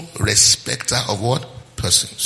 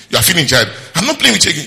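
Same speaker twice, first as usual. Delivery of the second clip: put-on laughing through a sulky kid's words; laughing child imitation; 4 semitones higher, 4 dB louder, faster than usual. Pastor laughing as he mimics a sulking child. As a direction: giggle while playing the pouting child. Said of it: "child quarrel retold, laughing".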